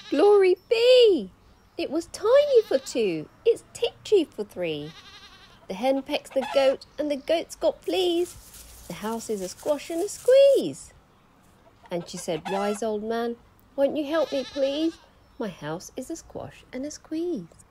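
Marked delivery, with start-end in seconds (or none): 0.1-10.9 put-on high, loud flustered old lady; crying old lady. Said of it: "The little old lady cried". 12.5-17.7 put-on pleading old lady.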